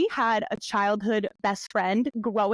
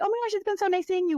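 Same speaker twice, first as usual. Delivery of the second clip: high, quick gush; mock gushing; 9 semitones higher, faster than usual. Showing what not to tell an ex, mock gushing. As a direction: imitate an overeager catch-up in a raised voice. Mimics overeager chat with ex.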